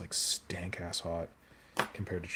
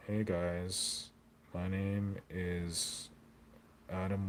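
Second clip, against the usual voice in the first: lightly voiced, slow weir intro; a hint of a weir brother, drawn out; weir brother impression; 3 dB quieter, much slower than usual. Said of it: "Maybe I should do my impression of a weir".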